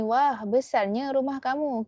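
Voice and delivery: slow, marvelling wah with falling tune; amazed exclamation. Shown as a demonstration. Teacher re-reading example with delight. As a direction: gush over the big house. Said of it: "Kita boleh tengok kat sini".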